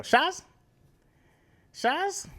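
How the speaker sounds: put-on high, loud Latino-accented "Shaz?"; mock Latino accent, questioning and punchy; imitating Latino accent. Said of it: "whenever I talk to people who are Latino, uh, they go".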